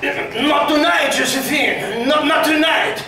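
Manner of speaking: Napoleon turning Josephine down, slow and dismissive; drawn-out refusal, a hint of weary husband; mock cold brush-off. Napoleon refusing Josephine, a lightly hammed-up brush-off. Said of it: "But it would have been more like".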